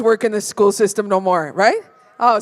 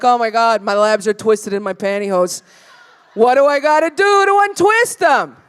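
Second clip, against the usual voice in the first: rising into a frantic shout; mock panic. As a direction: panic building to a yell. Church-goer complaining about twisted labia.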